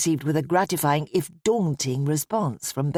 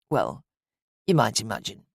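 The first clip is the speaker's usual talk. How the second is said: weary sigh; 8 semitones lower than usual. A narrator's reading. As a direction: let the weariness sink the words. Weary grieving father trails off.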